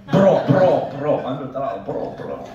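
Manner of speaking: loud Jersey Shore bro; mock Guido voice; Guido impression. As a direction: bark it like a gym bro.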